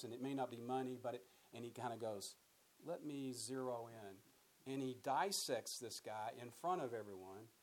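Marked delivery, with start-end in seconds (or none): 2.8-4.7 very slow, measured focusing; slow deliberate. Retold or imitated. Jesus to the ruler, slow and deliberate. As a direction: draw it out slowly like a surgeon.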